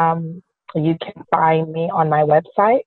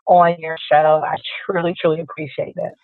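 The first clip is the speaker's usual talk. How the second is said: hoarse, raspy speaking voice; 2 semitones higher than usual. Real, not acted. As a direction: talk through a rough, raspy throat. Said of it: "Excuse my raspy voice".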